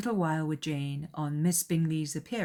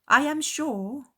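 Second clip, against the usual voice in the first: gushing mother; 10 semitones higher, 5 dB louder, slower than usual. A narrator's reading. Mrs. Bennet voiced.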